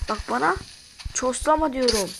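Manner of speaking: loud scolding of the creeper; shouting. Real, not acted. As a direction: yell at it to stop.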